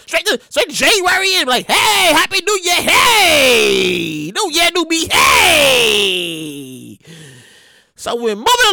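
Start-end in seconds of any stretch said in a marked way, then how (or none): 1.7-7.0 cheery. Pretend. Imagined skipping to January.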